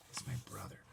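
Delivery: soft unvoiced whisper. A narrator's reading. Boy whispering back to the neighbour. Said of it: "I whispered back".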